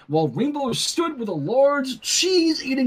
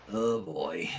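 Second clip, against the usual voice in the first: nervous; 7 dB quieter than usual. A narrator's reading. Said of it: "Sunset swallowed hard".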